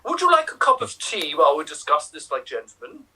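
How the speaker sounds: put-on English accent. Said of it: "continue this with an English accent".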